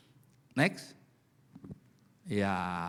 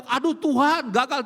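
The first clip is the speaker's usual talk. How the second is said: mock despair; 8 semitones higher, 5 dB louder than usual. Voicing despairing believer.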